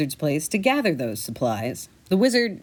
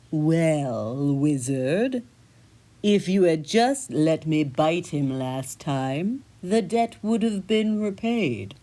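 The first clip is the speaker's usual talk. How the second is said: talking cat; 2 semitones lower, slower than usual. Acted. Cat answers the wizard back, slow and sly. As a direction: purr it out like a smug cat.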